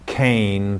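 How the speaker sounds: "kain" said slowly and carefully as a Hebrew word; Hebrew word pronounced. Shown as a demonstration. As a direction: sound out "kain" deliberately, one clear syllable. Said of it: "is from the Hebrew word".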